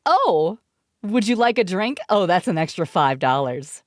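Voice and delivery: sweet stewardess offer, lightly put on; a hint of cabin crew charm; mock stewardess voice. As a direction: play the too-polite flight attendant. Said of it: "stewardess voice acting".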